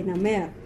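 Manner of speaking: "namer" accented on its final syllable; teacher showing end stress in "namer"; stress on last syllable. Shown as a demonstration. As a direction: lean on the second syllable of "namer". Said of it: "the last syllable has the stress".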